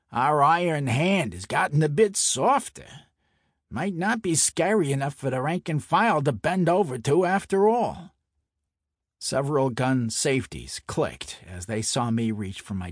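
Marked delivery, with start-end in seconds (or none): 0.1-8.1 mocking Brooklyn mobster. Santoni mocking narrator.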